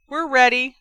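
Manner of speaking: loud, high call; calling back. A narrator's reading. Ginny answering the far teammate, calling back. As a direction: call it back across the pitch. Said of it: "Ginny called back".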